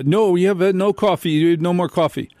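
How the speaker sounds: lightly voiced store clerk, apologetic; imitating the clerk. Imitating the store clerk who says no coffee.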